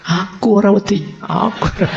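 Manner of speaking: high far-off mock yell of a scared friend. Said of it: "dia terus berdiri sambil teriak-teriak".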